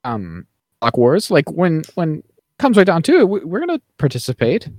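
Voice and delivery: rally them with mock passion; a hammed-up impassioned plea; impassioned speech. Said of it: "he gives this whole impassioned speech".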